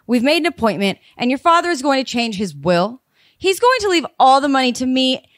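sweetly polite voicemail with a cold edge underneath; mock-courteous message hiding the anger; polite but angry. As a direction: read it nice and pleasant but let the spite leak through. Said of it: "It's so weirdly polite and so angry".

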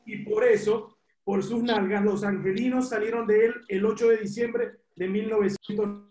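measured read-aloud from a book. Real, not acted. Caller reads a book anecdote to the ex-player, measured reading. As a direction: read it out deliberately, phrase by phrase.

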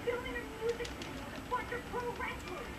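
dry mock answer; deadpan sarcasm, then a laugh; sarkastisch. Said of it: "Nice sarcasm".

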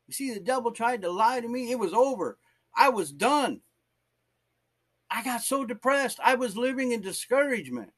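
high-pitched, fervent preaching; impassioned testimony. Real, not acted. Preacher telling the church of his own depression, impassioned.

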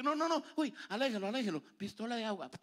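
high, panicked priest pleading; a priest recoiling from the ugly baby; mock frantic priest. Priest at the baptism, mock panicked and high.

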